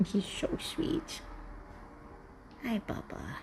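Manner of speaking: breathy hushed slow aside; soft whisper. Real, not acted. Owner whispers fondly over her sleepy cat.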